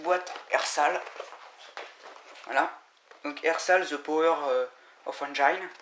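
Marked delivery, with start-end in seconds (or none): 3.9-5.7 English brand name in a thick French accent; clumsy French accent in English. Real, not acted. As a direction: read the English words the French way. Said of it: "excusez-moi pour mon accent un peu pourri".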